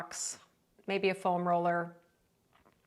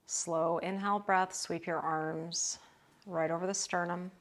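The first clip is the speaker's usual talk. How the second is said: unhurried breath cues, settling at phrase ends; calm yoga breathing guidance; guided breathwork. Real, not acted. Cues breath and arm movement.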